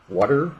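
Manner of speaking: "water" as "wah-der", the middle T softened to a D; casual American "water" with a D-like T; D sound in water. Shown as a demonstration. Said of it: "I'd probably say it like that".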